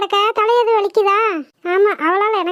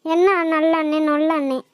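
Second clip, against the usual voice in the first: scornful echo; 4 semitones lower than usual. Acted. Scornfully echoes the other girl's praise.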